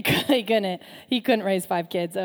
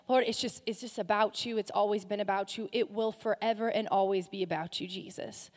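prayer. Acted. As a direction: pray it gently and sincerely. Closing prayer.

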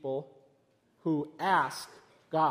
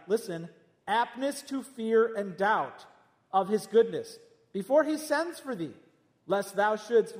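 prophet voice; 3 semitones higher than usual. Retold or imitated. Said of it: "this, like, uh, prophet voice".

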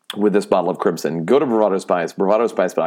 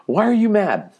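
much higher, playful needling; mock high teasing; 13 semitones higher than usual. Host needling his grumpy cohost, mock high sing-song. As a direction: poke at him in a sing-song.

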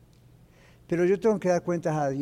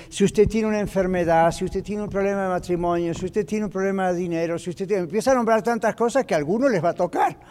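altar call demo. Shown as a demonstration. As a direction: roll through the altar-call list with rising force. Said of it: "uno puede decir".

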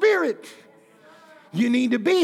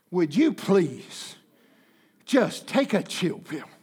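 calm rebuke; 3 semitones lower than usual. Retold or imitated. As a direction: gently set him straight. Holy Spirit rebukes the pastor.

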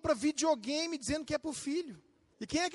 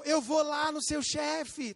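slow, shouted threat; threatening wife; much slower than usual. Retold or imitated. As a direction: yell it like an angry wife. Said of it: "Ou então". (esposa ameaçando, gritando devagar)

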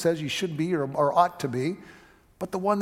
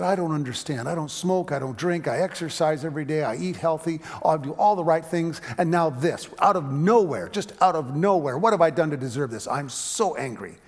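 angry woman; 4 dB louder than usual. Retold or imitated. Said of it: "frankly, was angry".

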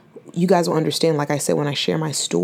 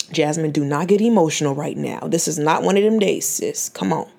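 self pep talk. Real, not acted. Talking herself through tears as a podcaster. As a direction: coach yourself through the tears, gently. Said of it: "this is how I really be talking to myself".

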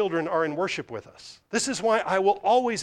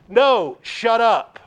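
louder dismissive rebuff; mock rude shout; 4 semitones higher, 8 dB louder, much slower than usual. The house shouting down the pleading crowd, loud mock rebuke. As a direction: cut them off, shouting.

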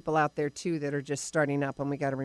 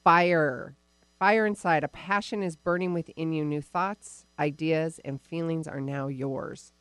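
dramatic reading. Acted. Dramatic card reading to the client.

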